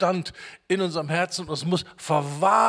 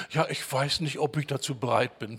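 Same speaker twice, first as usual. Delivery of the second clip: softer, lower hesitant mumbling; mock confused waverer; 4 semitones lower, 6 dB quieter than usual. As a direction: imitate someone who can't make up their mind. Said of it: "und reden so verwirrt".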